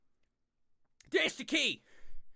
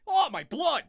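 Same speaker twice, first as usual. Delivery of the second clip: loud, slightly higher hammed-up cry; mock cry; 4 semitones higher, 5 dB louder, slower than usual. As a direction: cry out theatrically.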